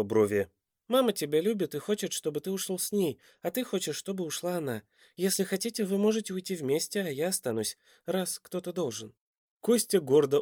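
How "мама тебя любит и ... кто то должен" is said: put-on soft, high-pitched boy; child voice. A narrator's reading. Boy offers to stay instead of parents, high and childlike. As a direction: reason earnestly as a small child. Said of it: "детского голоска".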